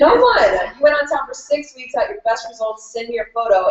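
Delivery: high, emphatic, tearful cheering; excited urging. Retold or imitated. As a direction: keep pushing her to send it, still worked up. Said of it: "crying because this girl".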